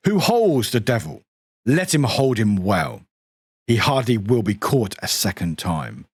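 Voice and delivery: a touch of a grim narrator; deep voice. Acted. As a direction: read it like a dark oath. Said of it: "Deep voice time".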